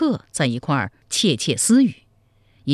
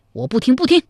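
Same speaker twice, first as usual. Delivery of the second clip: loud, much higher refusing cry; stubborn refusal; 11 semitones higher, 5 dB louder, faster than usual. Acted. General refusing to hear more, loud refusal. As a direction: drown him out, refusing.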